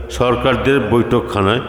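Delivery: usual speaking voice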